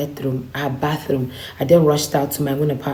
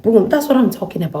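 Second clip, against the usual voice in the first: excited cheer; 6 semitones higher than usual. Retold or imitated. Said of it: "She's like".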